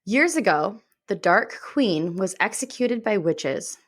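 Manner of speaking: measured, dramatic description reading; lightly dramatic narration, phrases falling at the ends; book blurb read. Acted. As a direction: read the blurb with hushed storyteller weight. I'm going to read the description from Goodreads.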